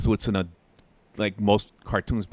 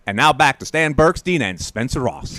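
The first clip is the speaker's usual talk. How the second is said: lightly voiced race caller; a hint of an old TV race announcer; race caller Jack Ely; 3 dB louder than usual. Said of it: "my best Jack Ely, who was the race caller".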